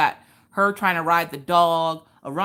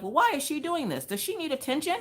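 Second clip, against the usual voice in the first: mock commenters; 10 semitones higher than usual. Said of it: "a lot of people were like".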